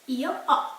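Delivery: "Io ho" with the H silent, "ho" like a plain O; no breath on the H of "ho". Shown as a demonstration. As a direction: say "ho" as a bare open O. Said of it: "like a normal O".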